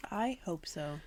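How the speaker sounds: laughing while speaking. Real, not acted. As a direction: say it through a real laugh. Laughing at haunting idea.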